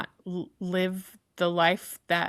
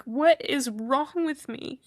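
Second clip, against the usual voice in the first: real tears; 5 semitones higher than usual. Real, not acted. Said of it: "Of course I'm crying".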